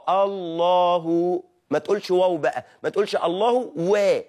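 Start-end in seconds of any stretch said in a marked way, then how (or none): 0.1-1.4 الله stretched slowly to "Allaahuu"; damma on ha. Shown as a demonstration. Teacher showing the vowel on the ha, drawn out. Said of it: "في ضم على الهاء في كلمة الله". 3.2-4.2 الله و said as "Allahu we"; wrong waw. Shown as a demonstration. Teacher showing what not to say, extra waw attached. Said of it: "لا، و دي لا".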